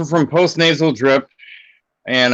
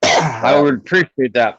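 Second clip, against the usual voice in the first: cough, then speak slowly; coughing through a sore chest. Real, not acted. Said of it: "That's a nasty cough you got there".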